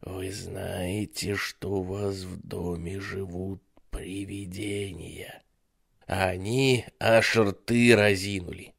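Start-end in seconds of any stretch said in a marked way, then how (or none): 0.0-5.4 slow, soft ominous hush; sinister whisper. Acted. Babysitter asks the kids about ghosts, slow sinister hush. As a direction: hush it slowly to scare them. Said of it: "тем же шёпотом продолжил".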